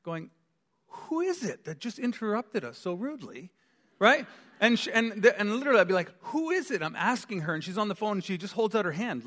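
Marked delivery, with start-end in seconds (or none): 0.9-3.5 frustrated husband. Retold or imitated. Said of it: "I'm getting frustrated". 6.3-6.8 high-pitched mock-insistent question; exasperated asking, pitched way up; frustrated husband. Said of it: "I'm getting frustrated".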